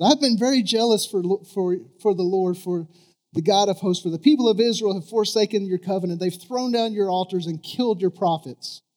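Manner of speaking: loud, high complaining prophet; griping to God. Retold or imitated. Preacher reading Elijah's complaint to God, loud and aggrieved. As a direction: protest it like a wronged man. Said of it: "he's griping to God".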